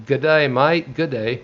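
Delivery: light mock Aussie "good day, mate"; Australian greeting. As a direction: toss off a cheery Australian g'day. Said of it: "I love that good day".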